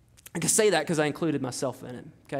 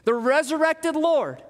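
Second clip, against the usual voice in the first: higher, ringing proclamation of his name; Jesus proclaiming; 5 semitones higher than usual. Acted. Jesus declares himself to Paul, raised and ringing. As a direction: preach it as the risen Lord declaring himself. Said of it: "He says".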